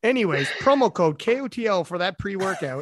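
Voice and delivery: mock ad read; wrestling promo. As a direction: announce the promo code. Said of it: "that's how you cut a promo".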